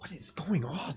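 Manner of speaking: startled, high-pitched, caught-off-guard exclamation. Voicing a character startled by a screeching fox: startled NPC. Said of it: "she's startled a bit".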